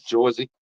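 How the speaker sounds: "Jersey" said "Jawzee" with a rising end; Jersey pronunciation. Retold or imitated. Showing viewers how locals say "Jersey", "Jawzee". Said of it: "That's how they say it".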